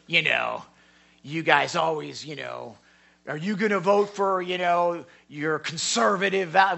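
mildly hostile challenge, imitating a heckler; mock hostile questioning. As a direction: throw it out accusingly, as a retold confrontation. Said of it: "He was, he was hostile".

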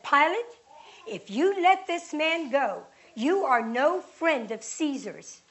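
loud, threatening warning; crowd outcry. Acted. Crowd threatening Pilate over Caesar, loud outcry.

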